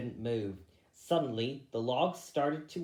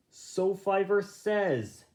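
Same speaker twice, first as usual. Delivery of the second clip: sceptical rabbit; 7 semitones higher, 4 dB louder, slower than usual. A narrator's reading. Hawkwood doubts Fiver.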